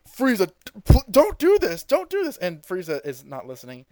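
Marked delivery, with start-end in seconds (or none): 0.1-2.4 high pleading scream, pitch climbing; screaming plea. Retold or imitated. Goku begging Frieza to spare Krillin, high desperate scream. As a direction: beg him desperately to stop. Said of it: "Goku screams at Frieza".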